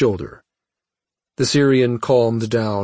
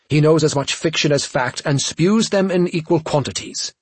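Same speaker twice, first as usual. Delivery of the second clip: through clenched teeth; 4 semitones higher than usual. Acted. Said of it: "Cha spoke through clenched teeth".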